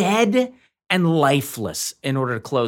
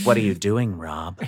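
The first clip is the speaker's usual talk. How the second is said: HAL computer voice; 5 semitones lower than usual. Pretend. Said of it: "Sticking with this bit".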